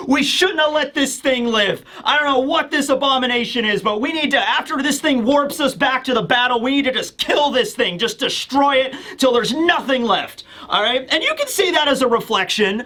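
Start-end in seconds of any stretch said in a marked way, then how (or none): 0.1-10.4 higher-pitched, urgent mock rant; retold scream at barely raised volume. Yamada urging Aizawa to destroy it, toned-down screaming. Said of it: "he's just screaming to Aizawa".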